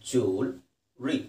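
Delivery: ಜ್ಯುವೆಲರಿ said very slowly, joo-ul-ri; ಜ್ಯುವೆಲರಿ drawn out with a rising end; pron. Shown as a demonstration. Teacher drawing out ಜ್ಯುವೆಲರಿ slowly for the class. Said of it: "slow model".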